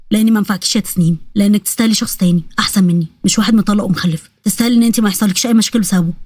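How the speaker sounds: low, sad inner monologue; sad thoughts. Acted. Rady thinks he is unworthy of Tasnim, sad. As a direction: think it through sadly, pitched low. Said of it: "وهو بيفكر بحزن".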